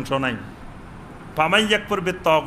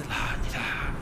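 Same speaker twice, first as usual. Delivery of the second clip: লা ইলাহা barely whispered; soft whisper; 7 semitones lower, 8 dB quieter, slower than usual. Shown as a demonstration. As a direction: whisper it so no one hears. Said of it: "আস্তে আস্তে বলতেছি".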